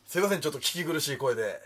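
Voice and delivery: raspy, strained voice; hoarse voice. Real, not acted. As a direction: talk through a hoarse throat. (かすれた声)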